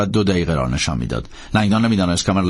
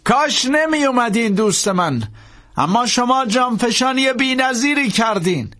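smiling regret; 14 semitones higher, slower than usual. A narrator's reading. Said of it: "لبخندی تحویل لنگدان داد".

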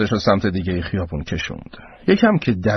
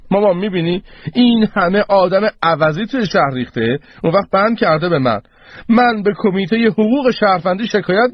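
higher-pitched, aggrieved son's protest; indignant complaint; 5 semitones higher than usual. Acted. Son protests to his mother.

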